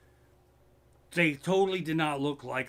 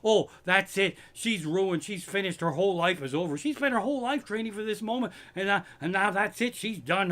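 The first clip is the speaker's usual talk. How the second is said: mocking commentators; 5 semitones higher than usual. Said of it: "judgmental pricks".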